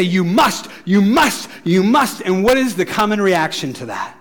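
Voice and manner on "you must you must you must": each must rising at the end, a little louder; pushy insistence. Retold or imitated. A church nagging its young people, rising and insistent. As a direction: nag with rising pressure. Church telling kids what to do.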